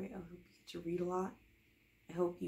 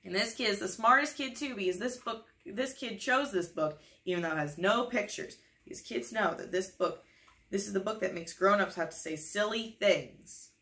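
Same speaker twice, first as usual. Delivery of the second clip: enthusiastic; 2 semitones higher, 5 dB louder than usual. Acted. Book praises the kid.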